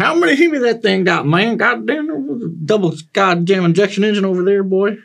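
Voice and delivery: loud, high-pitched derp talk; hammed-up derp voice, high and jumbled. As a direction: belt out high derp nonsense. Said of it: "but in derp".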